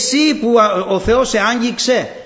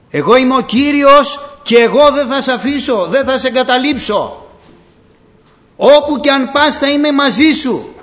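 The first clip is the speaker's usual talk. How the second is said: louder, higher, a firm promise; voice of the Lord; 4 semitones higher, 5 dB louder than usual. Acted. The Lord promising the drowning believer, ringing firm. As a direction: ring out as the Lord reassuring. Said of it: "τον Κύριο να μου λέει".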